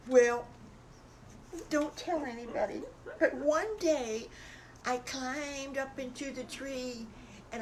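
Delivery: a hint of excited little wolf storytelling; eager little wolf. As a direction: gush about it like a hungry child confiding. Storyteller voices little wolf recounting.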